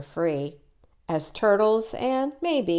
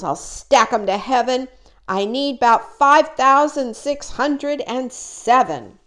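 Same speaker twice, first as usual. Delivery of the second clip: boastful king; 3 semitones higher, 5 dB louder than usual. Acted. Yertle rants about higher throne.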